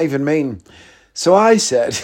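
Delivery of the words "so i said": laughing. Real, not acted. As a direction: voice cracking with laughter. Laughing before the punchline.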